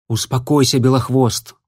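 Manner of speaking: plain reading voice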